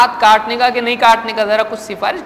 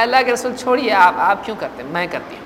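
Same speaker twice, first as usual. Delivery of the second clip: Aisha pleading; faster than usual. Retold or imitated. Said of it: "تو کہا".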